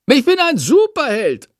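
high, gleeful bat voice; delighted. A narrator's reading. Chandor delighted with himself, high and gleeful. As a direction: crow with delight. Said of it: "freut sich Chandor".

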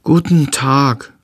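slow, stiff polite greeting. A narrator's reading. Tom greets his new stepmother, slow and solemnly polite. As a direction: greet her gravely and slowly. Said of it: "sagt er höflich".

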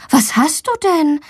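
high-pitched concerned mother; worried. A narrator's reading. Mother fetching her sick daughter, worried. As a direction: ask with gentle alarm. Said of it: "fragt ihre Mama besorgt".

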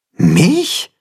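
baffled little question; perplexed. A narrator's reading. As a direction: caught completely off guard. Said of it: "fragt Timme perplex".

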